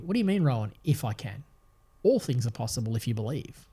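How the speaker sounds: a tender, welcoming answer to a doubting father; gentle invitation. Retold or imitated. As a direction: invite him in instead of scolding. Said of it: "See it as an invitation".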